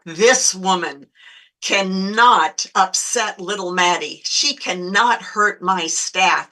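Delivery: slow, deliberate determination; retold protective resolve, measured pace; firm resolve. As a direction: draw the line, weighting each word. Resolve, retold as inner thought.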